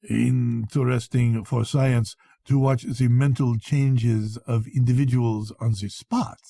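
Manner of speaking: slow, a hint of a knowing doctor; sly old doctor. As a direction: drop it like a private joke, slowly. Doctor explains his theory.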